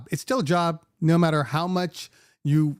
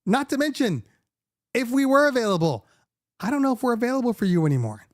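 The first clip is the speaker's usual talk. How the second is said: exasperated retort; 5 semitones higher than usual. Retold or imitated. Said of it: "And I'm like".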